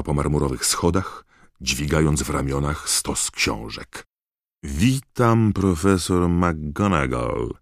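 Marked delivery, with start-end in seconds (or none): 4.6-7.5 drawn-out greeting, starting high and easing down; Moody's calm greeting. A narrator's reading. Moody greets the appalled McGonagall, calmly. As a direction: greet at leisure, unruffled. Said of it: "odpowiedział spokojnie Moody".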